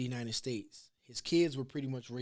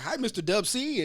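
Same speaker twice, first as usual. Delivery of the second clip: higher, louder sing-song hello; a cheery higher student greeting; mock polite greeting; 7 semitones higher, 7 dB louder than usual. Idris Elba greeting his dialogue coach, higher and louder.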